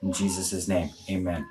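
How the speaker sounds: earnest spoken prayer; closing prayer. Real, not acted. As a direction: pray to close the stream.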